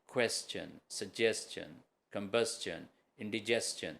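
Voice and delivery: کویسچن، سجیسچن، کمبسچن، انڈیجسچن each ending in "chun", not "shun"; کویسچن، سجیسچن، کمبسچن، انڈیجسچن slowly, each tail a clear soft "chun". Shown as a demonstration. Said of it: "وہ soft چن کا sound بھی دیتے ہیں".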